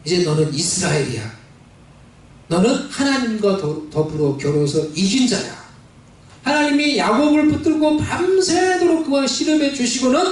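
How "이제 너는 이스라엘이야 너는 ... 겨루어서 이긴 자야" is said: lower, gentle voice of God; a lightly lowered divine voice; God speaking. Acted. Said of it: "하나님이 이렇게 말씀하시는 거예요".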